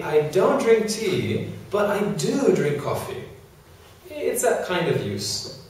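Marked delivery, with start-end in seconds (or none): 0.0-3.2 emphatic do in contrast; contrast stress on do. Shown as a demonstration. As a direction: do drink stressed against don't drink. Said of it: "if you're using a contrast".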